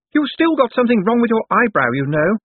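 high, loud, piercing jeer; Pucci. A narrator's reading. Sister needles Cosmo about his eyebrow, piercing voice. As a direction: needle him in a high, grating society-beauty voice. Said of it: "a voice like a saw encountering a nail".

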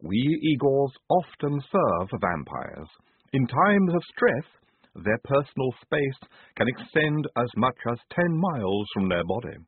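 lisping Igor voice; careful slow lisping speech. A narrator's reading. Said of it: "an extended lisp".

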